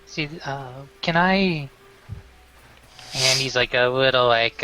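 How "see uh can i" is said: put-on drunk. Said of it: "he's slurring his words".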